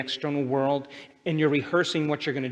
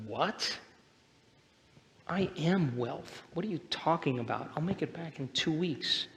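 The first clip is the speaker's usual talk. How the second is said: casual Jerry; 7 dB quieter than usual. Retold or imitated. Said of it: "He's like".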